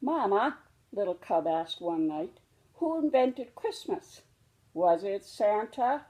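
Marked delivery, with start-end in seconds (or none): 0.0-0.6 little cub voice. Acted. Cub calls to mother. 2.8-6.1 put-on higher, childlike cub voice; curious little cub. Little cub asks Mama who invented Christmas, curious and childlike.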